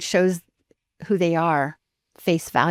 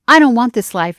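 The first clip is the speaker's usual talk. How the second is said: louder, higher, emphatic quoted declaration; retold animated outburst; 5 semitones higher, 9 dB louder than usual. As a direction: imitate an animated teen's refusal. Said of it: "he's super animated".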